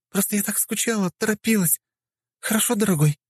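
высокий женский голос, сладкий к мужу; воркуй мужу между ударами; ласковая жена в бою. Acted. (высокий женский голос жены, воркующей с мужем)

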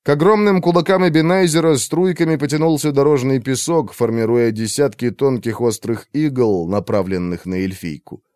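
ordinary delivery

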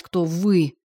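с ударом на «вы», громче, насмешливо; поддеть её, передразнив «вы»; издевательски. A narrator's reading. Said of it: "с издевательским выражением". (Данилин насмешливо подчёркивает «вы»)

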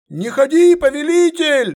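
high, loud cry from the ranks; shouted plea. Acted. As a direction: yell it out to stop him. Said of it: "выкрикнул какой-то смельчак".

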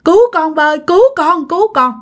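high, rising, repeated cries for rescue; desperate plea. Retold or imitated. Mother silently calling her late father for rescue, mounting frightened plea. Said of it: "mà kêu trong đầu, kêu trong tâm".

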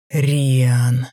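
thundering roar of a name; booming arrogant alien overlord. Acted. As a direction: boom it out like a furious overlord. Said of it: "прогремел голос Люцифера".

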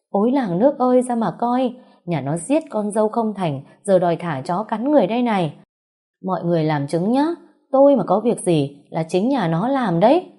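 high shouted lament; rally the whole street against them; wailing to the crowd. Acted. Mother wails to the crowd.

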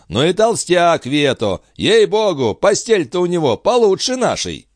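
high, coarse mocking voice; jeering commoner. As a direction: sneer at the king's bed. Rabble jeers on the bed.

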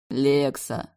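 tender call. A narrator's reading. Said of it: "ласково позвал он".

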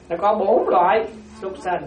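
slow, deliberate, each word set apart; slow and clear. Shown as a demonstration. Monk spelling out the lesson to his audience, slow and clear. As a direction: spell it out slowly for the listeners. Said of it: "Chúng ta phải nói rõ như vậy đó".

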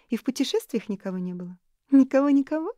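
высоко и громко, допытываясь; с жадным любопытством. A narrator's reading. Элис допытывается. (Элис допытывается у Нори о мужчинах)

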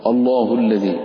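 الله starting "oh", dark from the first vowel; wrongly heavy hamza. Shown as a demonstration. Teacher demonstrates the fault, الله with heavy hamza. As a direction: round the opening vowel of الله. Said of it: "إنما هو آ".

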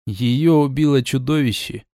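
plain reading voice

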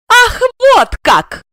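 high, slow, loud outraged cry; flaring up. Acted. Жена взвивается на мужа, высоко и громко. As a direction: shoot up in outrage. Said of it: "взвилась она".

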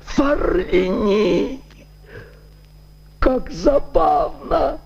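high, slow bitter mock cheer; bitter irony. A narrator's reading. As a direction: laugh bitterly at the news. Dying man's bitter irony.

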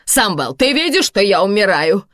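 loud, high, drawn-out wailing complaint; lamenting. A narrator's reading. Karina tells Samvel she is dying, lamenting loudly. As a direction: lament theatrically as if at death's door. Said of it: "причитает Карина".

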